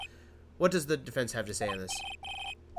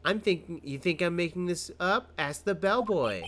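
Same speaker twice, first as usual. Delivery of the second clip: higher witness voice, stretched ending; defiant April May; 6 semitones higher, slower than usual. Acted. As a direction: challenge them, drawing out the last phrase.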